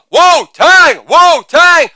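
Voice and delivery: high, shouted chant; rap-show hype call. Acted. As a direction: pump up the crowd.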